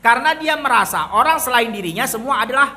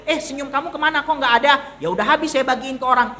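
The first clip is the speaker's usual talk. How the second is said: raised pitch, lightly acted dialogue; mock questioning exchange; 4 semitones higher, faster than usual. Preacher acts someone asked where their smile went, mock questioning exchange. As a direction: act out question and excuse in a higher voice.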